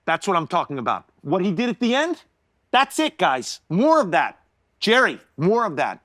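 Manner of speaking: excited director. Retold or imitated. Director praising the boy in front of the cast, excited. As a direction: cheer him on. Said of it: "he goes".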